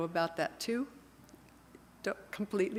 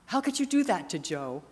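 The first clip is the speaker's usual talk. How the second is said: mock indignant; 4 dB louder than usual. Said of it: "and I was mad at her".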